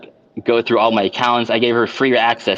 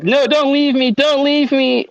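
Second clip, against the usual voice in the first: retold screaming plea; 13 semitones higher, slower than usual. Clinging to his leg on the stairs, she begs him, imitated high wail. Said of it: "she's still screaming at the top of her fucking lungs".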